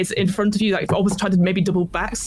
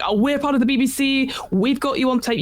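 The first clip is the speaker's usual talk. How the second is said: higher-pitched mock official warning; warning with words; 6 semitones higher than usual. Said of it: "if you're using your words, you're like".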